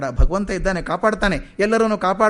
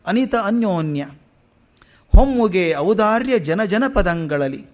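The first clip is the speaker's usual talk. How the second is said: slow verse recital, drawn-out lines; poem recitation. Acted. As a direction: draw out each line of the verse.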